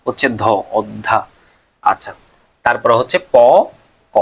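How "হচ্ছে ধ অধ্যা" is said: অধ্যা spelled out slowly, ধ held; slow syllable demo. Shown as a demonstration. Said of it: "তারপরে হবে". (ধীরে ধীরে অধ্যা উচ্চারণ)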